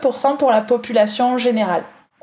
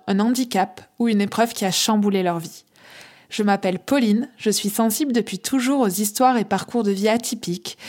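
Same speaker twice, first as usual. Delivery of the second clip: measured, lower-key scripted welcome; podcast intro read; 3 semitones lower, 4 dB quieter than usual. Acted. Host welcoming listeners to a podcast about ordinary heroes, intro read. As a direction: read a prepared show introduction. Reads the podcast's opening presentation.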